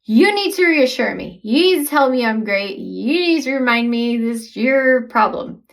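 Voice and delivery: mock demanding partner. Shown as a demonstration. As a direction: lay the blame on the partner. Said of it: "I didn't say".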